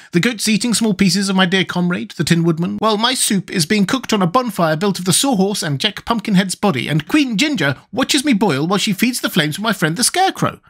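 high, plaintive Wogglebug voice; mildly doleful character; mournful. A narrator's reading. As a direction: paint the dire scene as a high lament. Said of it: "said he mournfully".

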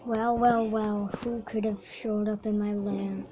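lightly voiced gloating villain; villain taunt. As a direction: gloat over the intruder. Dinosaur villain greeting intruder.

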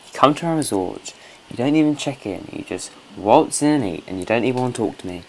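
half-serious rant at a rude guest; mock scolding. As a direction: scold the guest in pretend outrage. Scolding game character at resort.

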